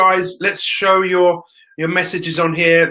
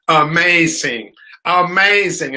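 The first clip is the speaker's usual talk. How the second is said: put-on Spanish accent; slower than usual. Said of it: "anyone with a Spanish accent say the word amazing".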